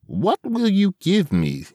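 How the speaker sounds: very high, slow squeaky goblin; high sly creature voice; hobgoblin voice. Acted. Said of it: "said the hobgoblin".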